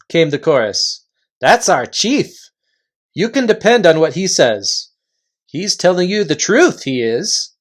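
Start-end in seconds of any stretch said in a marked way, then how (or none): 1.4-7.5 a touch higher, keen to vouch; eager follower voice. Acted. Follower vouching for the chief to Reepicheep, eager. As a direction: boast about the chief like a loyal henchman.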